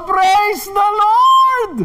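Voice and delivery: very high, long-held cry of praise; imitated ecstatic praise shout. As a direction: shriek it out joyfully, stretching every word. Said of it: "at sumigaw siya".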